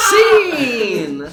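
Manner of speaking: loud high shout; called-out scene. Real, not acted. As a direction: yell it to end the scene. Calling scene end.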